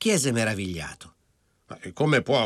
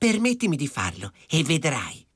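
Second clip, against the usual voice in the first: high, earnest, begging, pleading voice; 5 semitones higher than usual. The girl answers the woman, pleading. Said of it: "la ragazza la supplicò".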